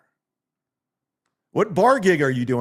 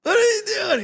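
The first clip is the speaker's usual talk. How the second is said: high, drawn-out mock-incredulous Lando; Lando Calrissian impression; 11 semitones higher than usual. Streamer greeting Gino as Lando greets Han, high drawn-out. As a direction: stretch it out like a stunned Lando. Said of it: "my Lando Calrissian impression".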